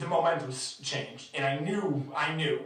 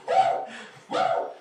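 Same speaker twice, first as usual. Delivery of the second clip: very high, loud mock whoop; imitating alarm-like cheer; 6 dB louder than usual. Mimicking the fan who sounded like an alarm, piercing whoops. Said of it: "I thought there was an alarm going off".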